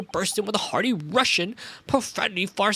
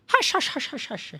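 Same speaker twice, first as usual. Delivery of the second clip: high, eerie Transylvanian hush; 9 semitones higher than usual. Acted. Sailor hushing the detective, in an eerie Transylvanian voice. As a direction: shush them like a Transylvanian count. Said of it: "my Transylvanian voice".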